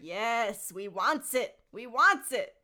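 loud, theatrical greedy chant; stagey creature outburst, rising at the end; Gollum, craving. Acted. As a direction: build to a loud, insistent demand. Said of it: "a theatrical voice".

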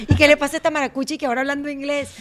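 fast, loud teasing gossip voice; mock Maracucho gossip. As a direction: rattle it off like a nosy neighbor.

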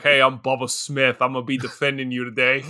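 put-on a touch of a deep New York accent; lightly put-on New York attorney, quick at the end. Bubba the attorney greets his new client, in a light New York accent. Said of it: "It's got a deep New York accent".

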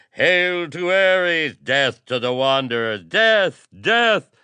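high, very loud chanted outcry; shrieked cries building to a frenzy; menacing mob shout. A narrator's reading. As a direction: yell slogans like a mob baying for blood. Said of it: "a distant yet menacing shout".

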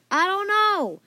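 high, loud worried cry. A narrator's reading. Fan with no plan left, worried. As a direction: wail it helplessly. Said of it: "Fan said worriedly".

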